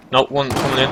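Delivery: urgent warning shout. Real, not acted. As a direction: call out the incoming threat. Warning of incoming enemy.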